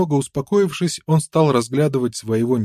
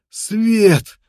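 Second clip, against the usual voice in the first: much higher and louder joyful yell; joyful shout; 10 semitones higher, 5 dB louder than usual. A narrator's reading. Prisoner sees daylight, loud joyful shout. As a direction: burst out even bigger the second time. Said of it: "закричал воспрянувший духом неудачник".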